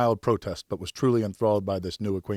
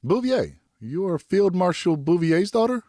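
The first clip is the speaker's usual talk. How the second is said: put-on young man voice; 10 semitones higher, 6 dB louder than usual. Narrator voices young man character.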